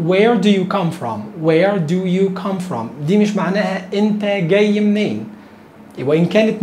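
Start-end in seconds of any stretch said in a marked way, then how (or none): 0.1-3.1 very slow Where do you come from; each word drawn out for learners; slow demo. Shown as a demonstration. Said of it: "ممكن تقول".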